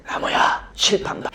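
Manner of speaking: unvoiced whisper. Classmate whispers a warning to look at the board. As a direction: hiss it under your breath, urgent. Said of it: "귓속말로".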